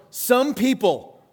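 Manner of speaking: slow, drawn-out passive-aggressive sigh of a line; mock vague complaint. Pastor mocking vague social media posts, slow and pointed. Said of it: "looks like this".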